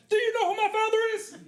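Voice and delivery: high, fast demand; perfect pitch entitled demand. Retold or imitated. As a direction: deliver it like the rehearsed big moment. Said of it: "Perfect pitch".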